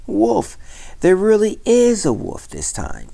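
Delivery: high, pleading cry for help; urgent shout. A narrator's reading. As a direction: shout as if it's truly urgent. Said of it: "climbed on his rock again and shouted".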